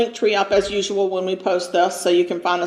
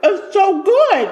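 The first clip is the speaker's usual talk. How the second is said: moaning with pleasure; 11 semitones higher, 5 dB louder, much slower than usual. Real, not acted. Savoring food, moaning.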